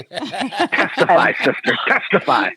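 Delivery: laughing, drawn-out testify; laughing cheer. Real, not acted. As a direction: cheer her on through laughter. Cheering on a friend.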